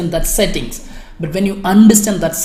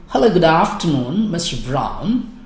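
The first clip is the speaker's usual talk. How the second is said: pleasant nurse greeting. Shown as a demonstration. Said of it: "It's little pleasant".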